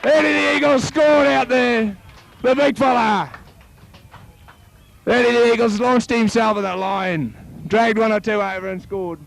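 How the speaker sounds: high, slow call easing back down; excitement settling. Real, not acted. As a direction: let the thrill fade as you name the scorer. Excitement fading after try.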